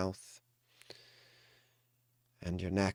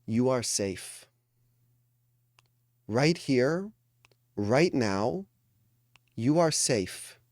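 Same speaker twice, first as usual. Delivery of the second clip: higher, deliberate phrases with pauses between; emphatic reassurance; 3 semitones higher, 4 dB louder than usual. Real, not acted. Coach telling a meditating group they are safe, emphatic reassurance. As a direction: press each reassurance home, word by word.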